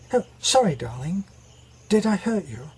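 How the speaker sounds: lightly acted posh British concern; polite British apology, starting high and dropping; genteel British husband. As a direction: play a mildly startled, well-bred British lover. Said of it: "a good British name".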